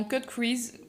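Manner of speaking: English words in a thick French accent; bad English accent. Real, not acted. Makeup vlogger names the technique, French-accented English. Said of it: "mon accent de merde".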